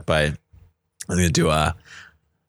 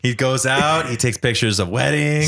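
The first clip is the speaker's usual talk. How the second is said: Donald Trump impression. Host praising friend's photos in a light Trump voice. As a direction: brag like Trump in a mild put-on voice. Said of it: "It's a bad impression".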